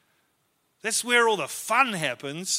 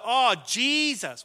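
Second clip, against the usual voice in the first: dawning recognition; 4 semitones higher, much slower than usual. Retold or imitated. Waitress finally catches on, retold.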